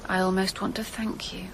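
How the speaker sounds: breathy whispered admission. Acted. Woman to her husband's killer, whispering. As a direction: barely voice it, almost to herself. Quiet confession after revelation.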